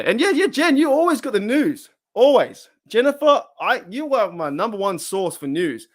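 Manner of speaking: high, loud burst of excited praise; excited shout-out. Real, not acted. Excitedly hailing a chat regular.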